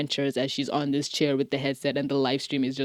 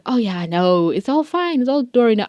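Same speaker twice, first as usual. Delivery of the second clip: Ragatha; 5 semitones higher, 4 dB louder than usual. Retold or imitated. Voices Ragatha pretending all is fine.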